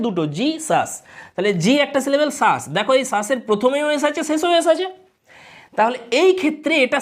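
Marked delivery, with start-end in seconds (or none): 0.4-0.9 জি সাস as two separate syllables; জি and সাস set apart to count syllables; split into syllables. Shown as a demonstration. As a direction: break the name into জি, then সাস. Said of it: "জিজাসে কটা syllable আছে".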